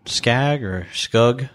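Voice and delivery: Skag then Skug, each word drawn out slowly as two sounds; two ways to say it. Shown as a demonstration. Unsure of the New Zealand slang, slowly trying Skag and Skug. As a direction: weigh the vowel of Skag against Skug, slowly. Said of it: "I don't know which one it is".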